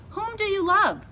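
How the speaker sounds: high, loud demanding question; demanding witch. A narrator's reading. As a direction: press her for the name.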